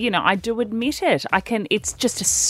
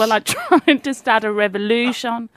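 put-on Kiwi accent; 2 semitones higher than usual. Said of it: "Lee's attempting a Kiwi accent".

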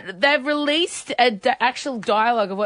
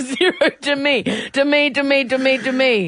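robot voice; 4 semitones higher than usual. Pretend. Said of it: "you have to do a robot voice".

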